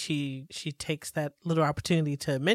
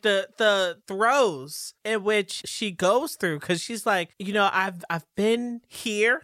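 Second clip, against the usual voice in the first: much higher and louder, slowed emphasis; excited exclaiming; 6 semitones higher, 7 dB louder, slower than usual. Real, not acted. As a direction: gush over her turmoil. Excited outburst about Anne.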